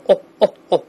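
哦 as a short, rounded British o. Shown as a demonstration. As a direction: round the lips for each short 哦. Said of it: "口是半圆形的". (圆唇发出短促的英式哦音)

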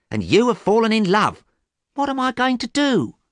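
high, fretting mother's voice; worried mother. Acted. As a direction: fret aloud, pitch climbing to a wail of worry.

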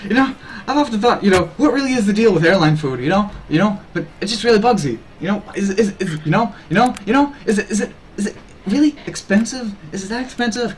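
high-pitched stand-up comic impression; Seinfeld. Streamer doing airline food bit for chat, mock comic. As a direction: stutter and puzzle through an observational bit. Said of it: "the streamer doing a Seinfeld accent".

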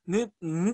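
ヌ sounded out twice as an isolated n-syllable; demonstrated nasal onset. Shown as a demonstration. Lecturer contrasting this with the earlier sound, pronunciation demo. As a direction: give ヌ alone, then repeat it. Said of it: "って音と違うけれども".

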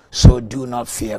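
forceful proclamation. Real, not acted. Quoting scripture forcefully.

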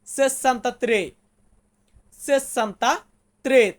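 slow, syllable by syllable; slow demo. Shown as a demonstration. Teacher sounds out an Italian number for students, slowly. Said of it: "তেষট্টিকে আমরা বলবো".

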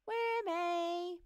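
high, loud drawn-out call; calling from above. Acted. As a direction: call down to a friend from the sky. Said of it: "came a voice from the high in the sky".

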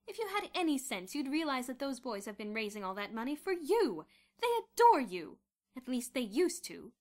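loud, heated accusation; wife accuses her husband, loud and heated; accusing. A narrator's reading. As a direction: tear into him point by point. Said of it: "she accused him".

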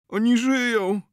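high, loud urgent cry; desperate cry. Acted. Zenon telling the healer they still live, high urgent shout.

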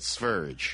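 "Sverige" as roughly SVER-idge; native country name. Shown as a demonstration. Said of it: "we don't call it".

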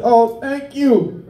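high, drawn-out thanks; touched gratitude. Retold or imitated. Teacher thanks student for cupcake.

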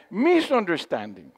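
ordinary talk

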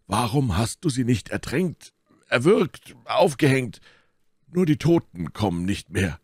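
exclaiming, high and swooping; Porthos. A narrator's reading. Porthos demands why she wasn't killed, calling out. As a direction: fire off the questions high-pitched. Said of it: "rief Porthos".

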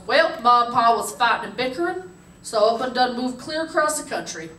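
lightly imitated Kentucky hillbilly; hammed-up Kentucky yokel telling his story; Kentucky hillbilly accent. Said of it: "Nope, I'm from Kentucky".

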